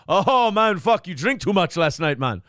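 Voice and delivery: hearty mock ribbing, loud at first; jovial boss. Owner joking with a male server about drinking, jovial. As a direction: imitate a boss joshing with his buddy. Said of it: "it'd be jovial".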